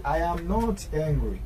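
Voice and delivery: drawn-out, careful teaching delivery; slow model sentence. Shown as a demonstration. Teacher showing learners the negative form, very slow. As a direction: stretch each word for learners.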